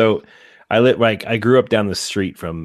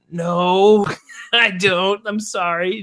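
put-on sheepish little kid; 10 semitones higher, much slower than usual. Kid answering mom.

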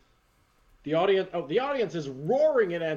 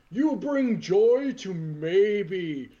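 Santa promo; slower than usual. Acted. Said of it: "Santa promo continues".

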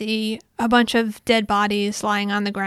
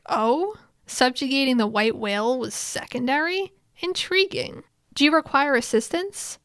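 higher, rising questioning tone; intrigued; 4 semitones higher than usual. Retold or imitated. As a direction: voice a curious noble lightly, pitched up. Krusch reacts intrigued, offers help.

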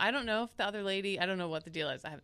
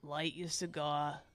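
calm app voice; 5 semitones lower, 6 dB quieter, much slower than usual. Acted. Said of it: "calm app version of that".

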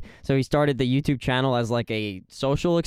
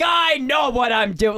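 high shouted mock insistence, much higher; mocking impression of cohost; 7 semitones higher, slower than usual. Mocking the cohost who refused to listen, high mock shout. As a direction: ham up his stubborn boss voice, yelled. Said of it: "And you're like".

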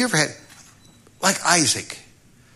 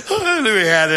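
mock smug, laughing; 8 semitones higher, 4 dB louder, faster than usual.

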